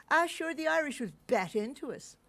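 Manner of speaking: lightly voiced old Irish gent; old Dubliner. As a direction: toss it off like an old local. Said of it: "you say".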